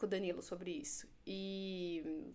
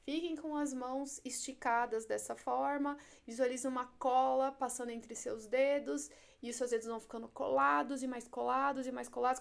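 stage hypnotist suggestion. Shown as a demonstration. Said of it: "Um exemplo".

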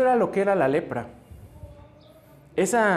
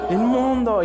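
louder call of unclean; leper's cry; 5 semitones higher, 3 dB louder, slower than usual. Shown as a demonstration. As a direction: shout unclean in warning. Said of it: "¿Cómo tenían que gritar?". (grito de inmundo del leproso)

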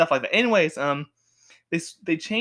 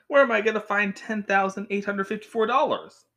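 high-pitched mock dismay; hammed-up plea for money; sitcom exclamation; 7 semitones higher, 3 dB louder than usual. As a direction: wail it like a cheesy sitcom character. Acted sitcom character in a predicament.

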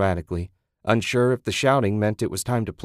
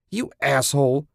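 screamed; 6 semitones higher than usual. Acted. Susan after Ted kicks the dog, screaming. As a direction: scream it at him. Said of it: "she screamed".

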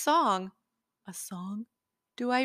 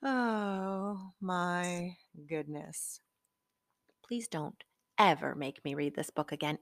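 exhausted plea; 2 semitones lower, 8 dB quieter than usual. Acted. Weary exhausted pleading.

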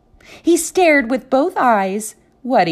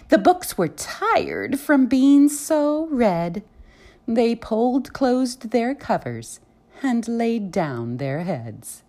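bedtime story narration. A narrator's reading. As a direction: read it gently like a lullaby.

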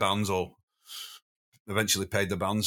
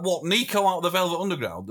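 higher-pitched, incredulous question; mock disbelief; 6 semitones higher than usual. Friends doubting the sighting in the club, mock disbelief. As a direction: retell a group's incredulous reaction. Voices their disbelief in story.

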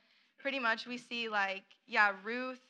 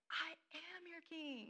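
higher, slow solemn divine voice; voice of God; 8 semitones higher, 6 dB quieter, slower than usual. Retold or imitated. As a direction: speak slowly as God, lightly hammed. God answering the people, acted quote.

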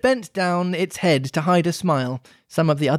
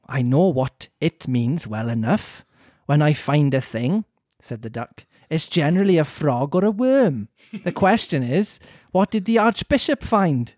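duck voice. Acted. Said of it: "You do your duck sound again".

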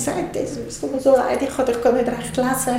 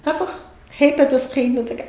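ordinary talk, nothing marked

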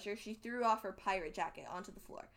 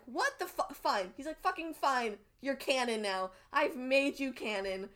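higher, louder imitation of grudging surrender; mock fed-up outburst; exasperated giving in; 3 semitones higher, 5 dB louder than usual.

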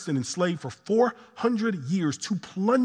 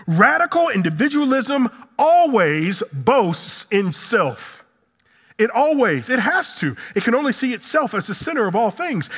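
higher-pitched, emphatic sermon delivery; impassioned preaching; 4 semitones higher than usual. Acted. Preacher warning congregation about individualism, impassioned. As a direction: drive the point home like a preacher.

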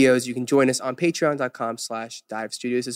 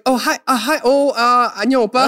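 imitating nervous high voice; 10 semitones higher, 5 dB louder, faster than usual. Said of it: "you're like".

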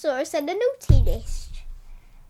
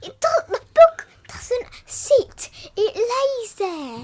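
playfully pedantic; 8 semitones higher, 5 dB louder, slower than usual. Acted. Pedantic joke about "sit.

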